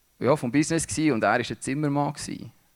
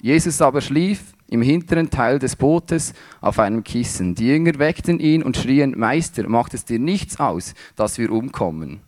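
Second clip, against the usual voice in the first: scripture reading; 5 dB louder than usual. Acted. Reads Gospel passage aloud.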